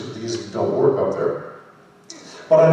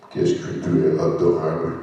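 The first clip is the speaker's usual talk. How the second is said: meek, hushed French compliment, pitched down; Wormmon speaking French; 6 semitones lower than usual. Acted. Voice actor calling someone adorable in French, meek creature voice. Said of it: "but as Wormmon".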